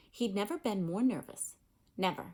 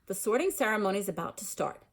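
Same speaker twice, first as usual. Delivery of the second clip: louder, brisk and stern; stern professor announcing the sorting; sharp; 4 dB louder, faster than usual. Acted. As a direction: hurry everyone along. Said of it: "said a sharp voice".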